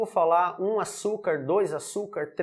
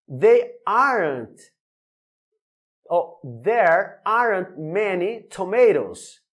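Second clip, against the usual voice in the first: slow, loud teaching read; slow model sentence; 5 dB louder, slower than usual. Shown as a demonstration. Teacher reading the example slowly to students, loud and clear. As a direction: lay it out word by word for the class. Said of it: "Vamos pra mais um exemplo aqui".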